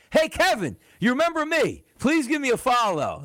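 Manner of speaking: high, pleading mock fan voice; high begging fan. Host mimicking a fan begging him for a follow, high and whiny.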